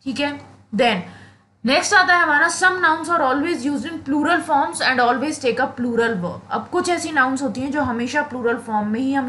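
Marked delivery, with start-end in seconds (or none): 2.5-6.4 very slow, word by word rule reading; slow dictation. Acted. Teacher dictating a grammar rule to students, very slowly. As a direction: read the rule so students can write it down.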